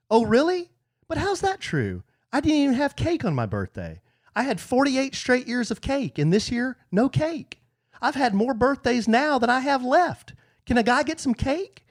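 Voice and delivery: high, put-out birthday grievance; hammed-up high-voiced complaint; high-pitched mock protest. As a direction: whine up high about being cheated. Acting himself complaining about birthday cake.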